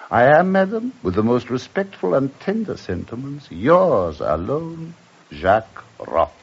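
florid love letter read with flourish; reading a letter aloud. Acted. Master reading the drummer's letter aloud, theatrically. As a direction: savor each sentiment as you read.

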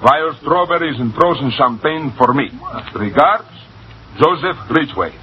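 a light Russian accent on the cablegram. Shown as a demonstration. Reading Ridgway's cable for the advisor, mild Russian accent. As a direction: read it as a Russian nobleman would. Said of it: "That's my accent".

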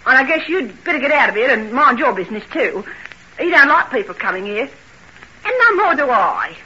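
indignant, pushing a visitor out; rising irritation, landing hard on the refusal; irritated dismissal. Acted. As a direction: bristle and send them packing. Telling the visitor to leave.

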